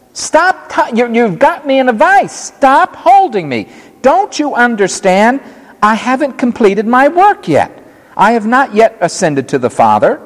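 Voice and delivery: gently pry her loose with words; voiced Jesus protesting.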